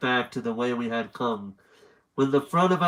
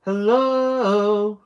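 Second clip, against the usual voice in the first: high falsetto hello, a bit louder; drawn-out, high-pitched falsetto greeting; 9 semitones higher, 6 dB louder than usual. Shown as a demonstration. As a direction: flip up into falsetto and hold it. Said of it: "I did falsetto".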